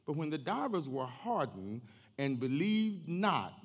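measured, emphatic pulpit reading; scripture reading. Real, not acted. Preacher reading Acts to the congregation, declamatory. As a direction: read it out slowly, leaning on key words.

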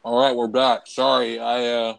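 talking while chewing ribs; mouth full. Real, not acted. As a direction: speak through a mouthful of food. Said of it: "shoving some ribs in my mouth".

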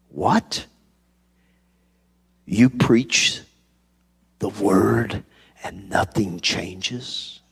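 lightly imitated South African accent, slow and incredulous; retold question with a hint of South African accent. Young pastor asking in disbelief, imitated South African accent. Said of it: "in his South African accent".

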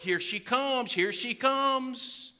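high, excited call, stretched out at the end; John the Baptist cheering. Acted. Unborn John cheering as Mary arrives, excited calling. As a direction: announce her arrival with hammed-up glee. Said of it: "He's going".

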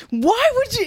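high, loud mock yell; imitating Corey's sudden yell; retold yell. Corey yelling at the AirTag talk, a high mock yell. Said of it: "He just starts yelling".

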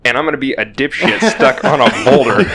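amused at his own blunder; laughing. Real, not acted. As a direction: chuckle as you admit it.

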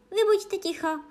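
high, loud silencing shout; angry cry. A narrator's reading. Queen silencing Alice, angry high shout. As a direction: shout them down. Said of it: "vykřikla královna, zrudnuvši do tmava".

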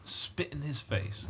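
slow, drawn-out mock accusation; mock outrage. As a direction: deliver a pretend charge word by word. Piling on mock accusations of betrayal.

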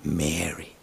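soft, low, loving "Mary"; tender calling of a name. Acted. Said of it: "says her name in this melody".

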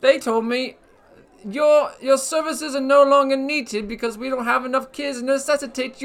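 a hammed-up British accent, lightly done; put-on British accent. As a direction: play a cheeky British host with a put-on British accent. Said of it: "That's a nice accent you have".

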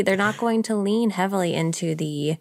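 ordinary talk, nothing marked

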